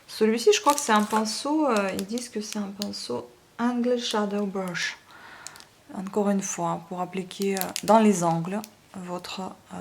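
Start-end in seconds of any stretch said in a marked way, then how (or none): 3.6-5.0 English words in a thick French accent; terrible English accent. Real, not acted. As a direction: read the English name with French sounds. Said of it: "mon accent anglais terrible".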